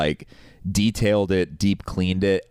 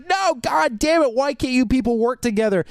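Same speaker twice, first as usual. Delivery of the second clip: retold furious yell; 3 dB louder than usual. Yelling at the repair guy about useless companies, furious. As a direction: drag out the curse in exasperation. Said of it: "So I start yelling at the guy".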